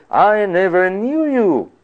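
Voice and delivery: a hint of a judge turning them away; Christ rejecting them. Preacher voicing Christ turning away false Christians, stern. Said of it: "would be told".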